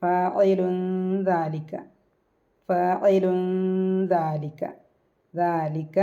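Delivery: ഫാഇലുൻ ദാലിക with the n hidden and humming into the d; hidden nasal. Shown as a demonstration. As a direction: glide the n of ഫാഇലുൻ into ദാലിക through the nose. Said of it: "മഖ്റജിൽ വെച്ചിട്ട് മണിക്കുക".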